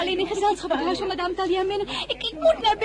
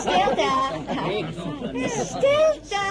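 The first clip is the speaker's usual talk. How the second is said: calling for silence. Acted. Hostess calls for silence.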